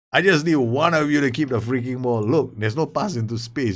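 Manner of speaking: nervous plea. Real, not acted. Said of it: "I'm a bundle of nerves".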